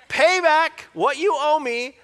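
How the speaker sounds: loud, high, drawn-out demand. Acted. Servant confronting the man who owes him, demanding. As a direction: press each word as a forceful demand. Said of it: "he demanded".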